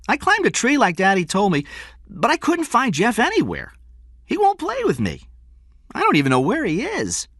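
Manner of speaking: put-on high-pitched child's complaint; aggrieved little boy explaining himself; young boy. A narrator's reading. Small boy complains in story.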